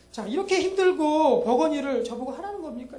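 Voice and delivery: a mild mock grumble from the disciples, pushing back; put-upon disciple protesting the impossible task; sarcastic complaint. Disciples grumbling back at Jesus, mock sarcastic protest. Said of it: "제자들의 그 말투는 어떻게 했냐면은".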